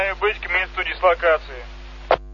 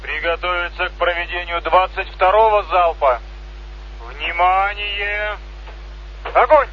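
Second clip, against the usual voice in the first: military commands; slower than usual. Real, not acted. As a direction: call out firing commands. Salute firing commands over loudspeaker.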